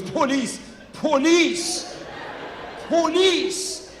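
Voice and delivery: high mock-panicked cry, climbing on each repeat; freaked-out friend. Friend warning comedian of cops, high mock panic. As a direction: wail the word in comic alarm. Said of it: "my friend freaks out".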